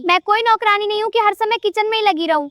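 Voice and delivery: mildly heated acted protest; angry retort. Daughter-in-law refuses to be the kitchen maid, mildly angry retort. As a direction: push back with a touch of anger. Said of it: "इतना गुस्सा क्यों करती हो".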